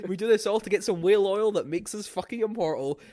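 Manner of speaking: lightly hammed-up gloating villain; mock bragging as a cartoon poacher; cartoonish Australian poacher. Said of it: "this is just me putting on a voice".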